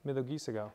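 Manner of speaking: "Miyogi Sagao" softly, with the stress back on GI; stress on third-last syllable. Shown as a demonstration. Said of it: "Third syllable back".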